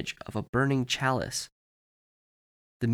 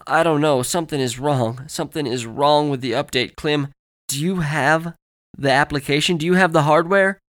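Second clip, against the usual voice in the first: higher, alarmed voice building louder; urgent panic; 4 semitones higher, 6 dB louder than usual. Acted. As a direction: press for an answer with mounting panic. Panicked man questions her during disaster.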